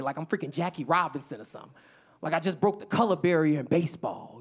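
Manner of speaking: usual speaking voice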